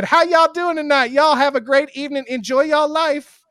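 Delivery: high, loud southern greeting; older black lady. Retold or imitated. Older lady greets passing couple, loud and high. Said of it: "the older black lady looked at us and said".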